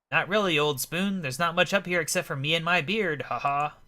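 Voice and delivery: lightly voiced eccentric gent, amused; jolly old-fashioned gentleman. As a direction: chat like a jovial storybook gentleman. Voices Rupert in game dialogue.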